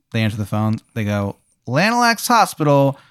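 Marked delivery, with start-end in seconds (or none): 1.7-3.0 receptionist. Acted. Receptionist answering the hospital phone, drawn-out greeting.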